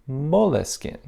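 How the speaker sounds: moleskin as three slow syllables, "mo-leh-skin"; extra middle "leh" sounded in moleskin; French pronunciation. Retold or imitated. Quoting the CEO on French usage, moleskin said "mo-leh-skin". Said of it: "and the French pronunciation is".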